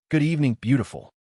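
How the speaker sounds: quick, teasing charm; flirty. Acted. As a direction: charm her mockingly. Hero flirts with ghost.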